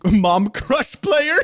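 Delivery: slow, loud words through laughter; laughing. Real, not acted. Laughing at own word.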